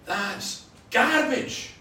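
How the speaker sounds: loud, high, drawn-out heckler's shout. Retold or imitated. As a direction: imitate a heckler yelling from the back. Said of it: "This voice shouted out from the back".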